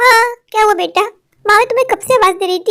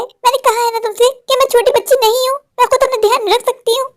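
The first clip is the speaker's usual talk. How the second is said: annoyed protest; 5 semitones higher than usual. Acted. Daughter protests to mother.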